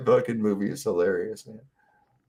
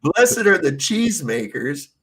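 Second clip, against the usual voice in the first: confused listener voice; 4 semitones higher than usual. Retold or imitated. Mishearing the Sermon on the Mount.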